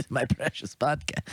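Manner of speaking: lightly attempted slow creature voice; a half-hearted creature impression, drawn out; slow, not very convincing Gollum voice. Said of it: "That's not a Gollum voice at all".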